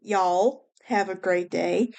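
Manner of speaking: slow, drawn-out Southern accent. Shown as a demonstration. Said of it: "let my Southern accent say it more".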